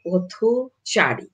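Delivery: পথচারী said slowly, পথ apart from চারী; syllable by syllable. Shown as a demonstration. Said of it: "পথ স্বতন্ত্রভাবে উচ্চারিত". (পথচারী ধীরে, পথ আলাদা করে উচ্চারণ)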